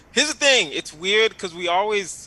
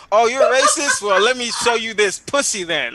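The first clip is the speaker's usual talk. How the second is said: mock protester; 5 semitones higher, 5 dB louder than usual. Imitating naked protester's reply.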